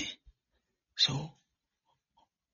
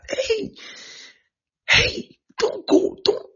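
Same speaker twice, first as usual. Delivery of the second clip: high, urgent "hey" shouts; loud, high-pitched warning cries; calling someone back; 6 dB louder, much slower than usual. Acted. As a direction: call after someone walking away. Preacher calls after one leaving.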